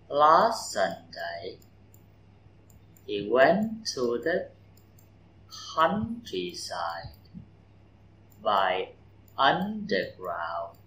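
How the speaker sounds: slow model sentence, LAST and went stressed; slow stressed reading. Shown as a demonstration. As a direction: spell out each phrase slowly for the class. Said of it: "trọng âm câu". (thầy đọc chậm mẫu, nhấn Last và went)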